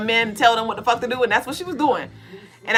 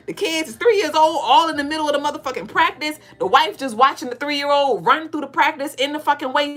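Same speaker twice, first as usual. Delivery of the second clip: worked-up rant; 5 semitones higher than usual. Real, not acted. Ranting about the idle coach's wife.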